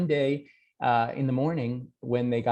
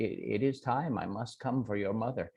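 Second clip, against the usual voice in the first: solemn Death; 2 semitones lower, 7 dB quieter, faster than usual. Acted. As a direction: say it as an inevitable sentence. Death insists to Jack.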